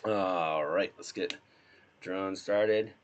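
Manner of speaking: leaning into a croaky voice; hoarse sick voice. Real, not acted. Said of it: "I'm gonna lean into my sick voice".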